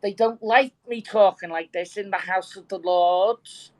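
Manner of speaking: thick Birkenhead Scouse; broad Scouse accent. Shown as a demonstration. Explaining how Birkenhead people sound, in broad Scouse. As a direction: demonstrate your native broad Scouse. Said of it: "and we sound like this".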